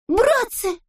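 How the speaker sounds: very high call; shouting. A narrator's reading. Toropyshka shouts to the brothers, very high. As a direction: cry out for help. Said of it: "закричал Торопышка".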